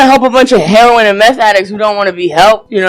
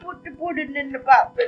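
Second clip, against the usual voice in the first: Bill Cosby smoker's voice; 5 semitones higher, 14 dB quieter than usual. Retold or imitated. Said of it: "That is Bill Cosby with the smoker's voice".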